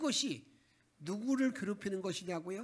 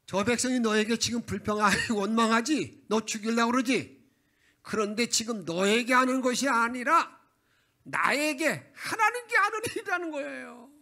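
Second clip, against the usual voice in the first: loud and booming, higher as it builds; God's booming voice; 4 semitones higher, 9 dB louder than usual. Retold or imitated. God answers weary Moses, loud and booming. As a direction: thunder it out as God reassuring Moses.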